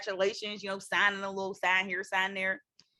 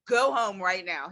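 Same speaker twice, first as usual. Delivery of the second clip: slow, firm retold order; harsh scolding; 3 semitones lower, slower than usual. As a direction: lay down a stern order, imitating the examiner. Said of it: "talked so bad to me".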